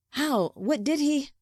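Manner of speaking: high, urgent questions; alarmed questioning. A narrator's reading. Son hearing father was attacked, high alarmed questions. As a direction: ask in startled alarm.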